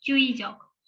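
Cuyijok said slowly as joo-ee-jok; Korean word read aloud. Shown as a demonstration. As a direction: spell out Cuyijok syllable by syllable. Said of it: "diye okuyacağız".

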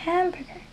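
"hamburger" pronounced in English; English word hamburger. Shown as a demonstration. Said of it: "Y se dice".

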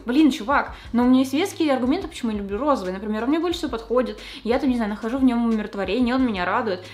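defending pink with mild heat; mock earnest protest. Acting out pleading her case.

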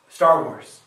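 loud thrilled exclamation; excited kid. Retold or imitated. Kid expecting Star Wars, excited exclamation. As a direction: blurt it out like a delighted child. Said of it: "I was thinking".

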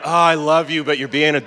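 mock-exasperated, affectionate scolding; fond exasperation. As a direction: act out loving someone who is annoying you. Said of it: "it's like that sort of feeling".

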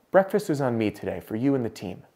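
softly murmured secret; quietly, just for him to hear; whisper. Retold or imitated. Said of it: "she whispers in my ear".

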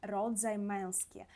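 Polish "род займенський" spelled out slowly; slow Polish term. Shown as a demonstration. Teacher spelling out the Polish term for students, slowly. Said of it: "Чоловічий рід —".

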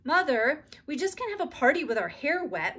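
put-on girl dismayed about wet hair; wailing. A narrator's reading. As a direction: wail it to your mother. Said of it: "wailed Beezus".

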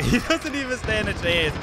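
lifted, gleeful disbelief; amused gloating. Real, not acted. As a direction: crow it with a laugh. First gleeful take before squealed repeat.

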